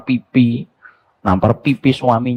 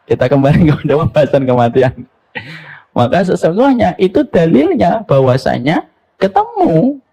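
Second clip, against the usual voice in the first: firm raised preaching; 6 semitones higher, 4 dB louder than usual. Real, not acted. Preacher resuming the topic forcefully.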